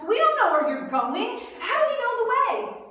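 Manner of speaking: loud, high-pitched panicked protest; yelling out. Retold or imitated. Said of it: "and Thomas yells out".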